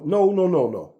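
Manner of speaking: high, loud, shutting him down; fed-up loud no; retold firm refusal. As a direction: cut off his deflection hard. Retold confronting Ali.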